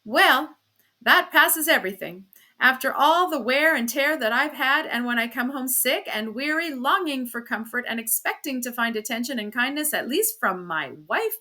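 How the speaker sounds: high, loud outraged grievance; aggrieved and incredulous; indignant self-pity. Acted. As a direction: build a case as the wronged husband. Husband's outraged reply in acted quarrel.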